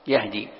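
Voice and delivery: يهدي as yahdi with a single d; no vowel after the h in يهدي, d undoubled; lightened reading. Shown as a demonstration. Teacher repeating the light reading softly, yahdi for يهدي. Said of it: "قرئ بالتخفيف".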